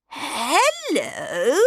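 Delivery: high, falsely sweet greeting; sweet old lady. Acted. Disguised Queen greeting Snow White, high and sugary. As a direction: fake friendliness.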